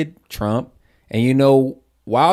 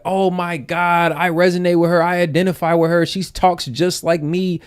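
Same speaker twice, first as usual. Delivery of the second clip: higher, gushing, hammed-up dumb fan voice; mocking an easily swayed voter in a dopey higher voice; mock gullible voter; 4 semitones higher than usual. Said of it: "But the stupid folks are like".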